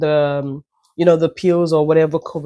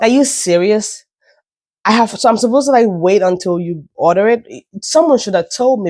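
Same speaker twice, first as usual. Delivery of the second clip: mild, higher-pitched retold indignation; indignant; 4 semitones higher, 4 dB louder than usual. Customer protesting to the pharmacy lady, indignant. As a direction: retell it as an incredulous complaint.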